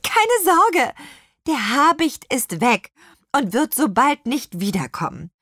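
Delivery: calm a flustered flock; reassuring. A narrator's reading. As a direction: reassurance over the commotion, easing down. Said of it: "beruhigte Petronella die aufgeregte Schar".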